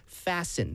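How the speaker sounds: "Fasten" slowly, with no T sound; silent T. Shown as a demonstration. Teacher shows students the spelling trap, silent T. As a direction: say "Fasten" as FASS-en, T dropped. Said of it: "T 발음은 안 들어갑니다".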